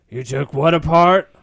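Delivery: loud incredulous yell up. Acted. Han yells up at Chewie about the engine, loud disbelief. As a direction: shout up in disbelief. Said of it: "Han yells up at Chewie".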